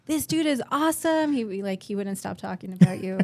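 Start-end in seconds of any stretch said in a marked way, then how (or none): 0.0-1.3 lightly imitating the husband's excitement, a bit higher; excited husband. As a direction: gush about the new friend, higher. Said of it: "He's like".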